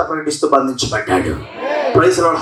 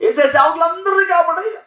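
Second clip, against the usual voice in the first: mock generic prayer; 13 semitones higher than usual. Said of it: "universal prayer".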